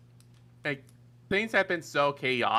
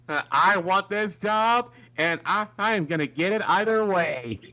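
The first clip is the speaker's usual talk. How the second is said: wrestling promo; 4 semitones higher, 4 dB louder than usual. Pretend. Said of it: "Cut a promo right now".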